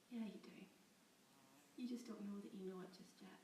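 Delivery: gentle, hushed and kind; soft knowing reassurance. Acted. Guard Clickshoe gently telling the captive she knows. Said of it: "but her voice was kind".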